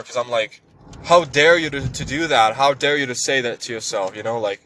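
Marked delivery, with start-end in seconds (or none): 1.0-4.2 a touch of mock outrage, slightly raised; half-hearted scolding of his own inner voice; angry at himself. Berating himself for wanting rest, mildly mock angry. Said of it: "I become even more angry".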